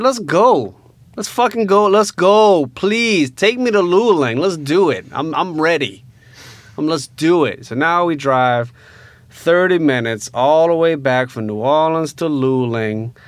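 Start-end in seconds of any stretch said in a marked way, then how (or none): 0.0-7.6 daring the cop to check; eager challenge. Retold or imitated. To the cop, defiantly eager to be taken to Luling.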